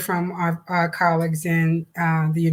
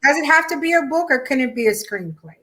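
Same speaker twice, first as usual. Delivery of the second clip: quick, higher, with a laugh in it; laughing question; 7 semitones higher, faster than usual. Real, not acted. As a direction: tease the idea through a laugh. Playful question between co-hosts.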